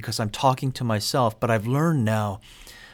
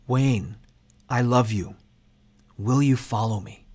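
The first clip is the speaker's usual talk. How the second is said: tender self-talk. Shown as a demonstration. Speaking to his own inner child, gently reassuring. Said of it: "speak back to my inner child".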